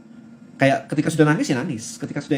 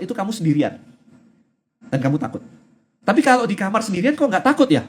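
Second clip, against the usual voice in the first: put-on teaching my kids. Parent quizzing her child about fear, playful rising question. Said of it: "Nah, kita ajari juga".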